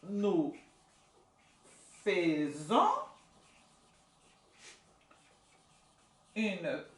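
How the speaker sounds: Nous, faisons, une, promenade spaced slowly; teacher dictating slowly; word by word. Shown as a demonstration. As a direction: dictate each word apart. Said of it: "Vamos conjugar esse verbo todo".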